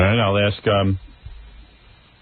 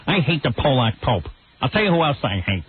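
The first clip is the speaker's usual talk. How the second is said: Ann Landers. Retold or imitated. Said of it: "Ann Landers talks like this".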